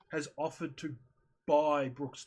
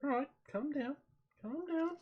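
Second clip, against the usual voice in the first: imitated pleading; 9 semitones higher than usual. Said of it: "And I'm like".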